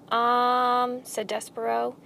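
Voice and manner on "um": hesitant, drawn-out filler; shaking voice. A narrator's reading. Mouse hesitates at the rat's offer, mildly nervous. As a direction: falter with a touch of nerves. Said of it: "His voice shook".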